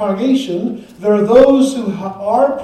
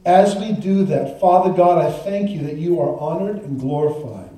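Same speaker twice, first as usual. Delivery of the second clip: prayer; 3 semitones lower than usual. Real, not acted. Pastor thanking God before the congregation, prayerful. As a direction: pray aloud in measured phrases, settling lower.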